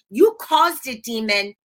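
playful accusing shout; mock accusation. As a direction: point the finger at the demon, hammed up. Jokingly blaming the demon.

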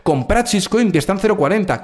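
a hint of a pushy YouTube shill; mock shill pitch. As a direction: sell it like a cheesy influencer, tongue in cheek. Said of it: "no es para deciros".

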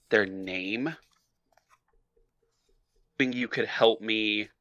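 nervous caller. Acted. Player poses as caller.

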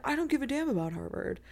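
juvenile sulk. Retold or imitated. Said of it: "the juvenile".

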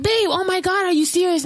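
exasperated husband. Retold or imitated. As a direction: play him begging in mock disbelief. Husband answers quarrel retold.

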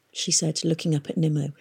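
ordinary delivery, nothing marked

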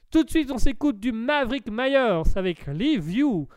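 French with English-accented song titles. Shown as a demonstration. Host announcing the music, best English accent. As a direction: lift the names in an English accent. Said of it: "avec mon plus bel accent anglais".

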